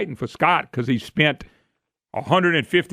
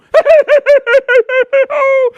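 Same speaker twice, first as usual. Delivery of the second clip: loud high burst of laughter; big laugh; 10 dB louder than usual. Real, not acted. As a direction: laugh out hard at the joke. Laughs at his own story.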